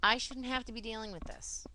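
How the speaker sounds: high, indignant protest; voicing anger at being wronged; angry protest. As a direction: raise the pitch in aggrieved complaint. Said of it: "I'm so angry".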